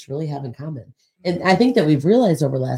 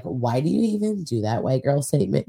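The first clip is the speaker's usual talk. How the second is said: put-on white girl voice. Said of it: "That's my white girl voice".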